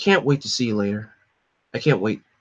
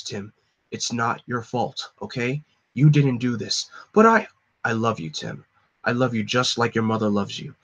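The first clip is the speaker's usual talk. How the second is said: tender farewell. Acted. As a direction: say it gently, last words to a son. Dying father's farewell to son.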